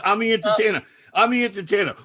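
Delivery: high, loud repeated plea; insistent protest. Retold or imitated. Hired entertainer explaining himself to hostile guests, insistent protest. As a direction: imitate a performer pleading over hecklers. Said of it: "He goes".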